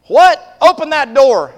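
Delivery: high, loud exclamation and order; startled mother. Acted. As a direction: burst out in astonishment at the child. Startled mother orders the door opened.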